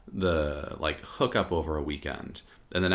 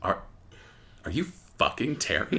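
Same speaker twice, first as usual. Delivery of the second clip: laughing accusation; 3 dB quieter than usual. Retold or imitated.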